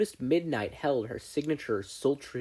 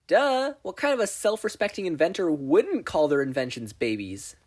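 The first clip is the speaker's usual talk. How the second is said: scoffing; 6 semitones higher, 4 dB louder than usual. A narrator's reading. Mei scoffs at question.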